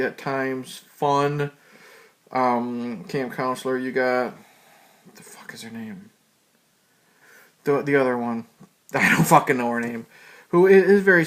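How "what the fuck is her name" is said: very low, near-whispered aside; muttered to self. Real, not acted. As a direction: mutter it under your breath while trying to remember. Asking self, forgot the name.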